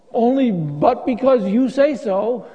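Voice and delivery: slow, earnest and trusting; mean every word of it; sincere trust. Retold or imitated. Peter humbly agreeing to Jesus, slow and sincere. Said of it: "Jack, I think he's being sarcastic".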